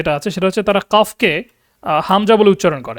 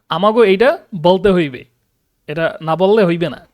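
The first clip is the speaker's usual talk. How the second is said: Barishal dialect. Shown as a demonstration. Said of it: "বরিশালেরটা বলা হোক".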